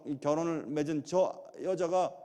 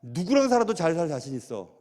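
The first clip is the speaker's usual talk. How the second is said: retold own words; 2 semitones lower than usual. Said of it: "내가 얘기했어요".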